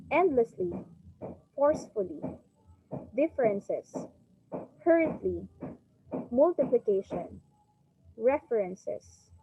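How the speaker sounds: endlessly, forcefully, differences, each opening on the strong syllable; word-list demo, punching END in endlessly, HUR in hurriedly; first-syllable stress. Shown as a demonstration. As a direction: lean on the first syllable of references, then fall. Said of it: "stressed on their first syllable".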